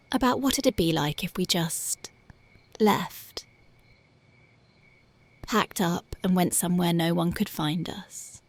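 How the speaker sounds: hushed daydreaming whisper. Acted. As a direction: share the escape plan as a secret. Lover whispering a secret dream.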